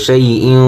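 "শাই ইন" with a held nasal ending; nasalised ghunna. Shown as a demonstration. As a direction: hum the n of "ইন" through the nose. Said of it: "গুণ হবে".

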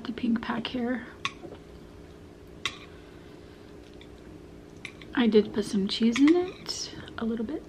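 speaking with food in mouth; words muffled by chewing; talking while chewing. Real, not acted. Seen 0: Ate noodles at -2; closed-lip chewing shape until about 2.6s.

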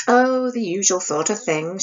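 offhand and casual, shrugging it off; nonchalant. Acted. Isabel telling her sister about the scolding, nonchalant. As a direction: toss it off like it's nothing. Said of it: "she said nonchalantly".

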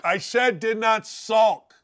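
"did not sulk" slowed right down; emphatic repeat. Real, not acted. Host insists on his praise of the quarterback, slow emphasis on "did not sulk". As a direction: drive home "did not sulk", word by word. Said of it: "Let me say it again".

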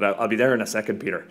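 imitated Northern Irish accent. Truck-driving former student agrees to the gig, in a Northern Irish accent. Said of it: "that's my best Northern accent".

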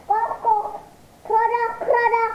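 child's playful frog imitation; croaking frog calls. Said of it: "Suara kodok?".

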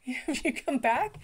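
lightly voiced toddler, slow and hopeful; a hint of a little boy's hopeful question; toddler asking. Grandson at the window asking for mama, slow. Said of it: "he'd look out the window again".

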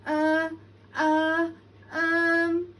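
high, loud, faltering grunts; failed roar. A narrator's reading. Lion trying to roar, stuck on loud little stammers. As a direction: try to roar and only stammer. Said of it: "nothing came out".

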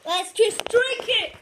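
loud, slow rallying cry; rally them to drink; excited shout. Real, not acted. Urging brother to drink.

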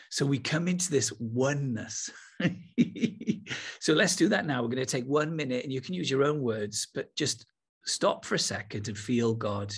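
ordinary talk, nothing marked

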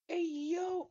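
high, loud whooping shout; excited call-out. Real, not acted. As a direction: holler it way up high. Sudden calling out in game.

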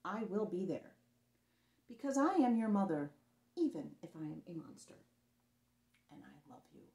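mother promising her son she'll always be there; tender promise. Acted. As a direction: reassure him gently.

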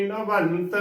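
ਨਵੰਤ with the n sounded fully, "navant"; "na-vant" with a clear nasal in ਨਵੰਤ; full nasal. Shown as a demonstration. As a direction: fill out the tippi in ਨਵੰਤ. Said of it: "ਉਹ ਭਰ ਕੇ ਬੋਲੀ ਜਾਵੇਗੀ".

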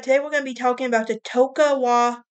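Tokugawa rushed at the end of a fast line; quick first try. Real, not acted. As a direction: say "Tokugawa" quickly, without care. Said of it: "I'm gonna do my best to pronounce it".

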